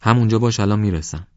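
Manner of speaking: loud call while climbing; calling to the friend uphill. Acted. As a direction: shout ahead into the fog.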